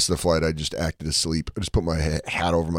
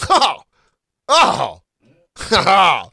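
shrill-pitched, loud cackling laugh, much higher; loud over-the-top mock laughter; manic laughing lady; 13 semitones higher, 10 dB louder, much slower than usual. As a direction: imitate a lady cracking up way too hard. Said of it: "this lady's like".

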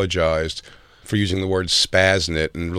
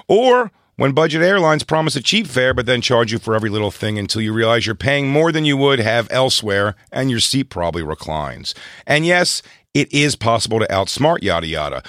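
sponsor read; 3 semitones higher than usual. Acted. Reads a sponsor ad.

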